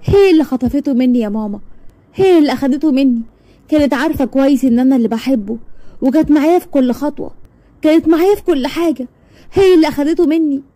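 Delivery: rising, tearful complaint; crushed and tearful. Acted. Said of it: "ردت بقهر ... دموعها على خدها".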